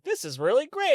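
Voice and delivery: savoring his new excuse; gleeful quitter. Acted. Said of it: "I like the character you're doing".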